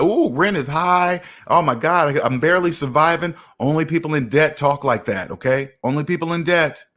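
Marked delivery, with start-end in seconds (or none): 0.0-3.4 mock debtor complaint. Financial streamer mimics people in debt complaining about rent, mock lament. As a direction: imitate someone in debt lamenting. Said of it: "People in debt say things like".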